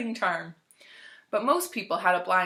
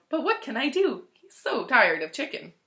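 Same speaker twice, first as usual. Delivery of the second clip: louder helpless wail; 4 semitones higher, 5 dB louder than usual. Acted. Dog owner excusing overfeeding to the vet, mild wail. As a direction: plead helplessly, a touch of a wail. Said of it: "Missus Pumphrey wailed".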